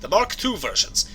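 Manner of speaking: hammed-up Scottish brogue; Scottish accent. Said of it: "my Scottish accent needs some work".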